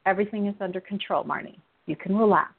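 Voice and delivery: calm, mildly soothing assurance; lightly reassuring God. Retold or imitated. God telling a worried daughter all is under control, calmly. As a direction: settle the listener in short, measured phrases. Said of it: "the thinking where he is".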